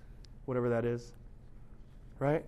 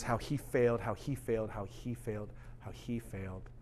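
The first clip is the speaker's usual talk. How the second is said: each how he failed softer, sinking away; fading repetition; 2 semitones lower, 6 dB quieter than usual. Acted. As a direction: let it die out line by line. Repeated phrase trails away.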